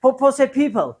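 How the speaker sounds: फुफ्फो से फीफल with a strong puffed फ; फुफ्फो and फीफल with every फ strongly aspirated; loud drill. Shown as a demonstration. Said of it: "ऊंची आवाज में". (फ को ज़ोर से फूंककर बोलें)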